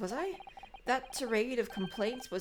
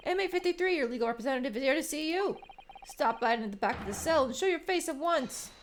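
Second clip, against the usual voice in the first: louder, stern jailer summons; guard calling out; 3 semitones higher, 4 dB louder, faster than usual. Acted. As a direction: bark the prisoner's number up the cell.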